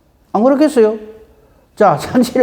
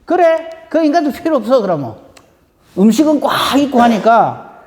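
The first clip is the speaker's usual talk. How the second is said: angry master; 2 semitones higher than usual. Acted. Master angered by refused invitations, snapping in anger. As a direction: spit out the rejection in anger. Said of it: "이에 집주인이 노하여서".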